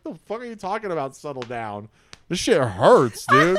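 high pitched outburst, rising to a squeak at the end; angry yell. Retold or imitated. Patient yelling at the nurse that it hurts, high pitched. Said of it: "I was like".

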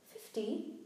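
mild shocked gasp, rising; gasped question. Acted. Harry to the professor over lost points, gasped. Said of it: "Harry gasped".

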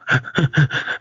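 short unvoiced sniffles; quick, soft mock sniffles; imitated sniffling. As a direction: mimic a theater full of sniffling. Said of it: "and the sniffling and everything".

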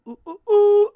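very high, very loud squealing ooh; high loud giddy ooh; excited squeal. Acted. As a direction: shriek it out with glee. Squealing after mock insult.

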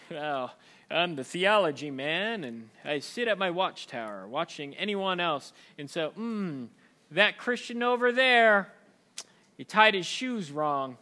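slow, self-important gatekeeper drawl; mock smug judge. Pastor mocking the judgmental theology man, smug and slow. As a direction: look down from the watchtower.

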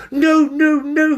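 high, loud frantic no; panicked refusal. Acted. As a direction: shout no in panic. Binnicky refuses.

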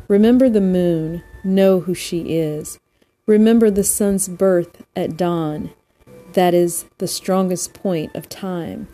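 measured recital with pauses between lines; poem reading. Real, not acted. Host reads a poem to listeners to unwind, measured poem reading. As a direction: read verse deliberately, leaning on each opening word.

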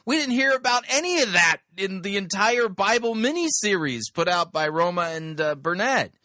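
excited outburst. Real, not acted. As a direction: pitch it up, amazed and fired up.

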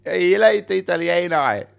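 Australian. Acted. Australian who dislikes Italians, mock-Australian accent. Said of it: "jag kommer från Australien".

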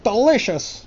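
mildly hammed-up delight; mock delighted. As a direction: relish it like a grown-up foodie. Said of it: "they're like".

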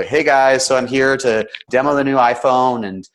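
loud, bright "hey guys" opener; hammed-up vlogger greeting; YouTuber intro. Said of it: "that very habitual, chronological way".

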